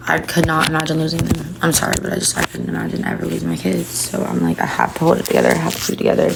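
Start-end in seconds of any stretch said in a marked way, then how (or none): 1.6-6.3 near tears, voice dropping to a whisper; fighting back tears as she talks; tearful. Real, not acted. Breaking down over losing kids.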